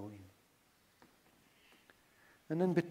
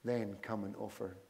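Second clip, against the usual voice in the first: measured reading with long pauses; slow scripture reading. Real, not acted. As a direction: read Scripture aloud deliberately, leaving room to reflect. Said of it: "I'm just gonna read them slowly, with pauses in between".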